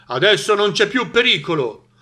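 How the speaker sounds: loud, high all-clear; farmer calling out. A narrator's reading. Farmer tells animals danger is over, calling out. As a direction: shout the good news across the barn. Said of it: "gridò".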